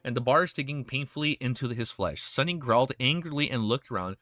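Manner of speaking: steady, measured novel reading; story narration. A narrator's reading. Streamer reads dark fantasy to viewers, in story narration. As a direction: read the tale aloud, falling at sentence ends.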